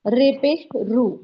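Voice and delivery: "رے پیش رو" very slow, stretching "رو" into a long o; demonstrating the u sound. Shown as a demonstration. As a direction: spell out "رو" slowly. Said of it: "واو کا sound ملانا ہے". ("رو" کو بہت آہستہ کھینچ کر)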